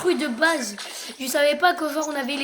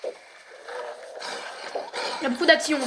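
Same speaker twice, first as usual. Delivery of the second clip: whispered; 4 dB quieter, much slower than usual. Real, not acted. Repeats slowly in a whisper.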